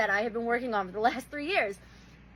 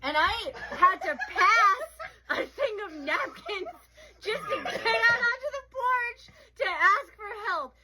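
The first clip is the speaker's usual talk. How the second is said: high, slow words squeezed through laughter; real helpless laughter; 7 semitones higher, slower than usual. Real, not acted. Telling how they begged for help on the porch, cracking up. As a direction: struggle to tell it while cracking up. Teller cracking up at own story.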